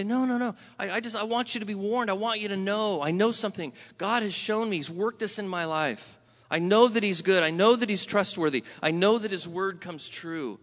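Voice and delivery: earnest pleading. Acted. Acts out pleading to be believed.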